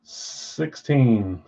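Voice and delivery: drawn out through a yawn. Real, not acted. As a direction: say it mid-yawn. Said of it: "Oh, I'm just yawning".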